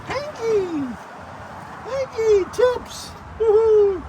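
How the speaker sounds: very high squawked names; parrot squawk calls. Pretend. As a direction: screech like a parrot calling out.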